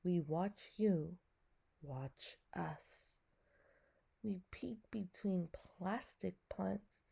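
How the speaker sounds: slow, hushed poetry reading; poem reading. Acted. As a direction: read it slowly, half whispered. Reads the fish poem aloud.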